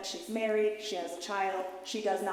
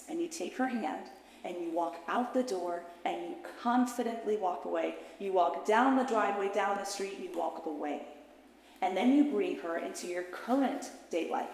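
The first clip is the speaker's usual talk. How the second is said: guided visualization. Acted. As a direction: lead her gently back into the memory.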